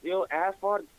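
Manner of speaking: imitating a furious tractor driver shouting; retold yelling. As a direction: yell it from a tractor at a passing man. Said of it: "he screamed my name. He's like".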